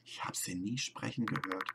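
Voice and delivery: shaken, soft whisper. Acted. Whispering to herself about the creatures. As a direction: whisper it in disbelief. Shocked musing alone.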